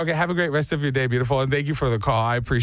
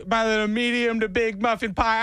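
doting mom; 5 semitones higher than usual. Retold or imitated. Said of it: "she goes".

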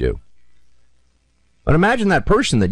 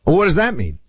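higher, mocking rebuttal; host mocking the mayor's clip, higher and sarcastic; sarcastic retort; 9 semitones higher than usual. Real, not acted. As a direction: scoff at the clip.

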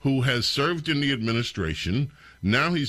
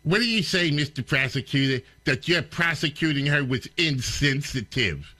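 incredulous mock reporter, pitched up; mocking the question; 3 semitones higher than usual. Host mocking the reporter's question, incredulous. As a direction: parrot the question with disbelief.

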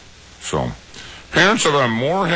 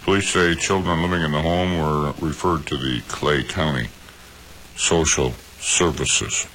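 news read. Acted. Reads news story on air.

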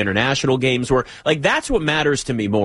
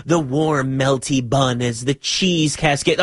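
mock whispery food ad; slower than usual. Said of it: "describes food in a whispery way".

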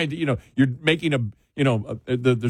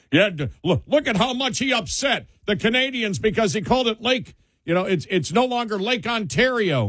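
high-pitched imitation of gloating supporters; mock cheering; 9 semitones higher than usual. Mimicking Republicans cheering over upsetting the Canadians, high mock cheering. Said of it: "Republicans out there cheering and going".

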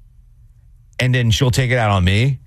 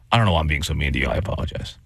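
imitating Nina's apology; 9 semitones lower, 5 dB quieter, faster than usual. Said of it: "she was like".

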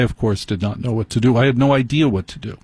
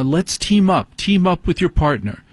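slightly higher, chirpy class-leader call; lightly voiced yoga instructor; 6 semitones higher than usual. Instructor pairing up the class, lightly imitated higher voice. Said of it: "the instructor said".

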